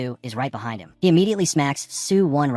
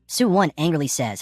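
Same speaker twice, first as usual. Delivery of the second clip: ordinary delivery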